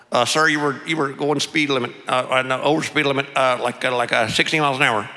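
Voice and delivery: hesitant Texas officer, mouth barely open; closed-mouth Texas accent. Acted. Sheriff stopping a speeding pastor, closed-mouth Texas accent. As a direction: mumble it like a Texan lawman. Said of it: "he talks the way every other".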